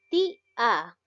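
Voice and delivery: "Ti" hit harder, "a" apart and falling; stress on Ti. Shown as a demonstration. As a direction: say "Ti-a" in two beats, first one strong. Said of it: "¿Cuál es la sílaba tónica?".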